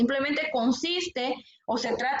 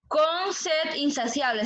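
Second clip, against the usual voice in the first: slow verse repeat; 2 semitones higher, slower than usual. Shown as a demonstration. Teacher repeating the verse for students to count, slowly. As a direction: say "Con sed insaciable" slow, stressing "Con". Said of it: "el verso dice".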